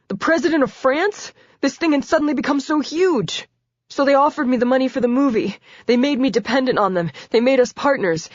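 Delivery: a cornered man spilling everything; frightened confessor. A narrator's reading. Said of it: "pleading for his life".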